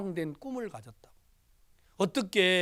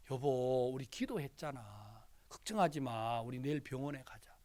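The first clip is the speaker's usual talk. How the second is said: quiet reassurance; 5 semitones lower, 8 dB quieter than usual. Retold or imitated. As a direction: lower and much softer. Husband comforting crying wife. (우는 아내를 낮고 조용하게 달래는 말)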